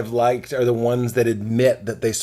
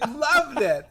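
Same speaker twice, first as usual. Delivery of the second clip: laughing teasing; 9 semitones higher than usual. Real, not acted. Laughing self-mockery.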